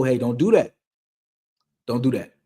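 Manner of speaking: calm, restrained correction; calm parent. Acted. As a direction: let the child know without anger. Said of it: "they see how calm you are".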